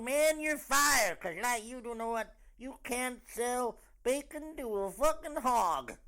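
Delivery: high, slow, hammed-up hick voice; redneck voter. Comic mocking a Trump fan, high drawn-out redneck voice. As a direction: draw it out like a mock American hick. Acts redneck quoting the TV catchphrase.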